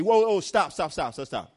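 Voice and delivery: a startled cry of whoa, then quick stops; panicked stop. Acted. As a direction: pull up in sudden fright. Acted diver panicking at count.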